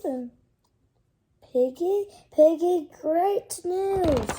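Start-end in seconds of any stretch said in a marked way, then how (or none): 1.5-4.3 excited calling. Acted. Gerald calls out to Piggie.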